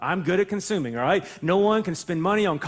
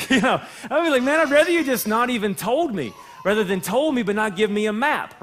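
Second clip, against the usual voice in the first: laughing through a mock complaint; 2 semitones higher than usual. Pastor joking about a buried million, laughing. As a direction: chuckle while grumbling about a missing map.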